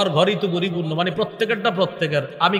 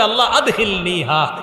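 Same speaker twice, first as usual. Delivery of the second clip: raised voice, laughing as he dares to ask; suddenly bold, with a laugh; half-laughing daring request; bold plea. Acted.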